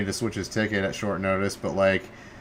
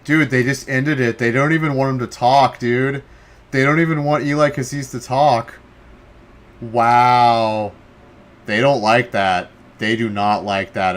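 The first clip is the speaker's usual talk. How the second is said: indignant; 2 semitones higher, 6 dB louder than usual. Real, not acted. Indignant about broadcast cut.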